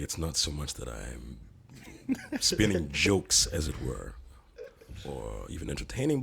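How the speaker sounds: pompous guru persona. Pretend. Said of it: "would you be so kind to go through maybe a little sequence".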